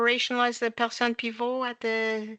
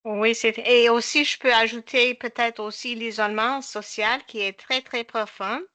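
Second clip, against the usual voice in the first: English-speaker's accent in French; French spoken with an anglophone accent; foreign accent in french. Real, not acted. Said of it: "Excuse-moi mon français".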